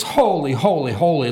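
"Holy" repeated in falling waves; emphatic repetition. Shown as a demonstration. Preacher showing the angels' cry, emphatic "holy". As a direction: stress each "holy" like waves upon waves. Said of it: "it could be this for emphasis".

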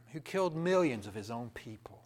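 ordinary talk

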